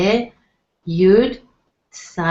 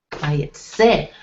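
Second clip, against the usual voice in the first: "Vayetze" with the weight on final "tze"; "Vayetze" said whole, ending on a stressed "tze"; stress on last syllable; 3 semitones lower than usual. Shown as a demonstration. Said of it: "stress will be on the last syllable".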